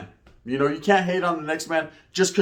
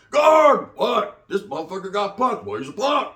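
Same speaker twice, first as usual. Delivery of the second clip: mock taunting voice; 3 semitones higher than usual. Voicing haters mocking the punked guy. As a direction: taunt it, fading back down.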